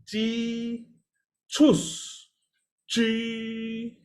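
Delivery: G, then high rounded choose, then G with lips kept rounded; three-step demo. Shown as a demonstration. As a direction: model it for students. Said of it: "So you pronounce".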